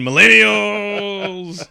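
loud, high, stretched-out mock wail; mock outraged cry. Comic blaming millennials, mock outraged yell. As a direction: drag the word out in pretend exasperation.

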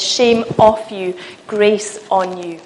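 slow, firm declaration; Jesus's stronger voice. Acted. Jesus declaring grace over a believer, slow and firm. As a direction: pronounce it slowly, with sure authority. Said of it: "his voice is louder".

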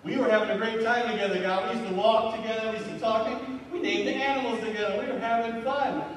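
rising into a high, pleading complaint; Adam whining that it's all God's fault; whiny Adam blaming God. Retold or imitated. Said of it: "So what he was saying is essentially".

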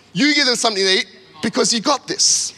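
lively, confident vote of trust; encouraging. Acted. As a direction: spur them on with belief. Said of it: "this in encouragement".

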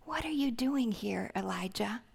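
whispered gently, soft and caring; tender whisper. Retold or imitated. God asking weary Elijah gently, in a tender whisper. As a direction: breathe the question kindly to a broken man. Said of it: "he speaks tenderly to him".

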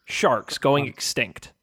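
earnest public service voice; PSA announcer. Pretend. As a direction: sell it like a charity ad. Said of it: "Can we do, like, a P S A?".

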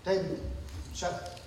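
low, very soft dismissal; weary put-down. Acted. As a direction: deflate an overeager little brother. Weary brothers deflate eager David.

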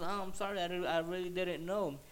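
hint of a woman's apologetic voice; apologetic lady. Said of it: "and she goes".

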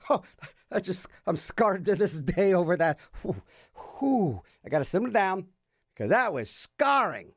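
feigned shakenness with relieved whews; mock traumatized. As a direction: overplay recovering from a tiny mishap. Feigns trauma over trivial mishap.

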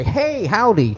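high, loud cheery howdy; a hint of a Southern neighbour; mock folksy greeting. Neighbours greeting in retold story.

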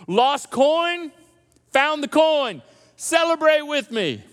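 rising preacher's build, slowed at the end; building excitement. Acted. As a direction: punch each phrase as it rises.

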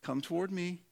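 soft, coaxing invitation; hushed, patient summons; gentle beckoning. Retold or imitated. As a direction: quietly call someone closer, as Jesus. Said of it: "as he has said".

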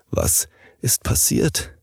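slow, breathless whisper. Acted. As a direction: whisper it weakly from the bed. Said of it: "flüsterte er".

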